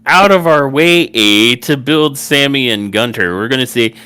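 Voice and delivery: hammed-up Canadian promo voice; mock Canadian bookers. Host mocks the bookers' pitch, in a hammed-up Canadian accent. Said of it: "now they're like".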